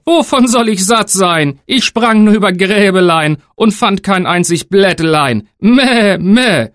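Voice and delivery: high, slow whining goat voice with bleats; complaining goat. Acted. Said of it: "Die Ziege antwortete".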